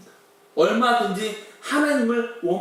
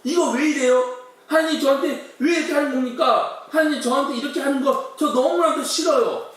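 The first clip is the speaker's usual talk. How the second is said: complaining to God; 5 semitones higher than usual. Retold or imitated. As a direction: whine at God as if wronged. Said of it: "따지지 않나요?". (하나님께 따지며 원망하는 약간 높은 항의)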